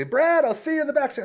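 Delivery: very high call from a distance; retold holler. Host calling to the star a second time, hollering. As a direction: repeat it as a high, carrying call. Repeats the yell to celebrity.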